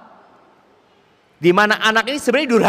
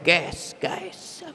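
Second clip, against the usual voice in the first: much softer, offhand casual "guys"; casual slang to a friend; 8 dB quieter than usual. Retold or imitated. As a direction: toss it off like chatting with a buddy. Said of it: "manggil sohib "ges". (panggilan santai ke teman, lebih pelan)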